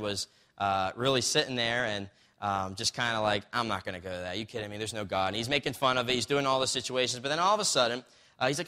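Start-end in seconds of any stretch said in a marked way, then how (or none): 3.5-5.3 low, quiet scoffing doubter; a quietly scoffing agnostic. Retold or imitated. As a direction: brush it off like a sceptic.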